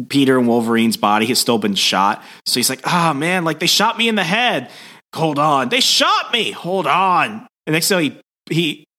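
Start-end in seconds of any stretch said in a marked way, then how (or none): 2.8-7.5 higher-pitched, aggrieved complaining; mock whining protest. Peter in Wolverine's body, still shot, mock whining. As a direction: play up being hurt and put out.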